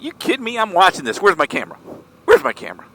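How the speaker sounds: high, eager mock disbelief; excited onlooker. Husband refusing his wife's plea to leave, excited. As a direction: build to a loud, thrilled demand. Excited reply to wife retold.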